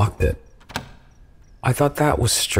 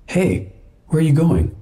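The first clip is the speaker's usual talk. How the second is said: put-on drunk slur; 7 semitones higher than usual. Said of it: "I slurred, like I was drunk".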